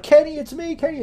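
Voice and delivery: high, loud call across the yard; yelling out. Acted. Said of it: "raises her hand and yells out".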